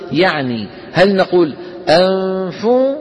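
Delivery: أنفو with the ghunna carried into the فاء; wrong version. Shown as a demonstration.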